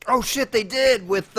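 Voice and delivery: loud, high, slow surprise; sudden realization. Real, not acted. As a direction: realize it mid-sentence.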